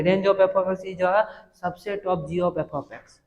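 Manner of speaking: whole statement read slowly and evenly. Shown as a demonstration. Teacher rereads the full statement for students, slow. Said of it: "total को ऐसे पढ़ेंगे".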